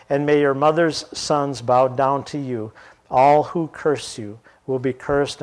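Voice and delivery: measured storytelling read with voiced parts; scripture reading. Preacher reading Genesis aloud to the congregation, measured. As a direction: read the Bible passage to the class.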